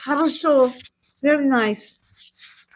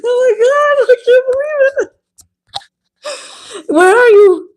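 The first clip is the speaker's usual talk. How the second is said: excited greeting; 8 semitones higher, 5 dB louder than usual. Real, not acted. Greeting a viewer in chat.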